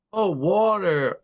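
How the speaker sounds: slow "oh, water" in dawning understanding; imitating an American, slowed down; mock American. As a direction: stretch it out as a clueless American. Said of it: "I used to say".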